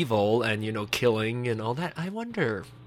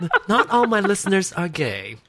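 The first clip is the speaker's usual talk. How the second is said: laughing; 8 semitones higher, 5 dB louder than usual. Real, not acted. Laughing tease continues.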